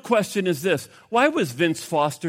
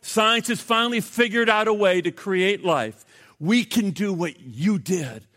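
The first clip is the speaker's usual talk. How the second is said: defiant cry; 4 semitones higher than usual. Retold or imitated. Scientist in the joke crying out at God, defiantly. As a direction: shake a fist at heaven, a touch hammed-up. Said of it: "he raised his fist up at God and he cried out".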